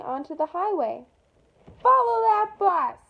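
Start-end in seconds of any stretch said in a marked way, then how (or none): 1.8-3.0 loud and slow, a bit higher; rallying the class to chase the bus; urgent shout. Acted. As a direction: call it out like a chase order. Chasing the other bus.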